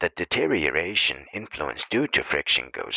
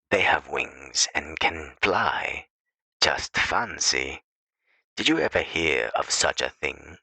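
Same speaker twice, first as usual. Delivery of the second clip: hushed mock wonder about a happy couple; amazed hush. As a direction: breathe it out like a miracle.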